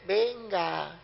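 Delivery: mild imitation of an officer's curt command; military order. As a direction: bark it like a sergeant, only lightly. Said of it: "Parece un perro ladrando". (orden militar seca, imitada con suavidad)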